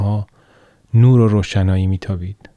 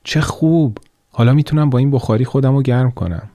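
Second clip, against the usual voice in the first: bright delighted exclamation, higher and quicker; thrilled at the warm stove; girl delighted by the vision of a stove; joyful; 4 semitones higher than usual. Acted. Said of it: "با شادی گفت".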